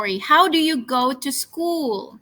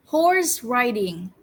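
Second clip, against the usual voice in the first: slow model word; slower than usual. Shown as a demonstration. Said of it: "repeat after me".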